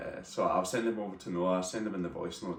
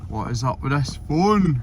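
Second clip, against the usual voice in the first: frustrated; 6 semitones higher, 7 dB louder than usual. Real, not acted. Frustrated at phone.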